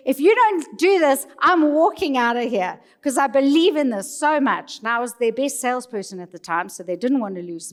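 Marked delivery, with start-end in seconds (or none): 0.1-4.8 tags 1. Retold or imitated. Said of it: "I got so upset".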